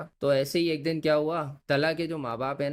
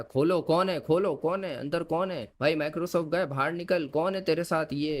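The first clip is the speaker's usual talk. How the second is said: acted demand through a locked door, pitched up; higher, mildly hammed-up urgency; urgent demand; 4 semitones higher than usual. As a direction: play someone insisting the door be opened. Banging on door, demanding it open.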